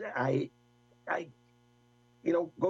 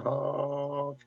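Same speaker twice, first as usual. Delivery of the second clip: imitated horn honk. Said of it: "I got the horn going".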